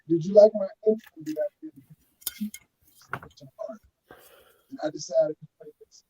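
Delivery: muffled, bubbling audio; underwater. Real, not acted. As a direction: sounds like talking underwater. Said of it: "You sound like you underwater".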